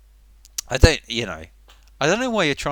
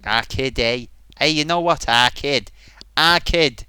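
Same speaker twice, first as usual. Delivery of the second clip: badly faked Mancunian swagger; loud, punched stab at a Manchester accent; a singer; 5 dB louder than usual. Trying a famous Mancunian singer, loud unconvincing Manchester accent. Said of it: "Doesn't sound like the singer".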